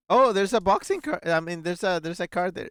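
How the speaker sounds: startled discovery. Real, not acted. Streamer spots a card in the picture, startled. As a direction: blurt out the sudden find, tripping over words.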